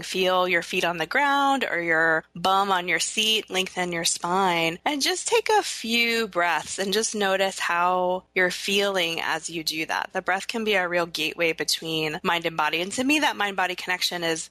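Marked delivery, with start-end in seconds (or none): 0.0-10.1 slow guided breathing cue; calm grounding exercise. Shown as a demonstration. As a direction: lead a short grounding exercise, slowly. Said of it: "So if you're wanting to try it".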